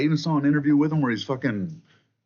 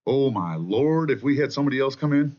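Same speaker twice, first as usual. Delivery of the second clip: mock dismay; 3 semitones higher, 4 dB louder than usual. Commentator mimicking worried Democrats, mock dismay.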